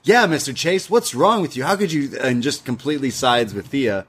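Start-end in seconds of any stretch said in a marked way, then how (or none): 0.0-2.2 mocking Duke. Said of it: "is like".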